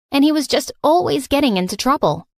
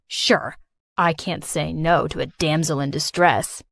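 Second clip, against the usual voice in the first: put-on smug boy; 4 semitones lower than usual. Brian smug in library.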